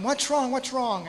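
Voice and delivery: lightly acted motherly yell. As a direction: imitate a mother calling out in concern. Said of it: "I hear my mother yelling".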